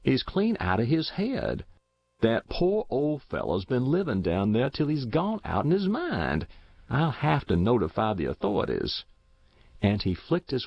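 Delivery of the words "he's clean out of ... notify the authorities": lightly voiced country farmer, pitched up; a touch of pitying disbelief; amazed farmer. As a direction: think aloud in mild rustic amazement.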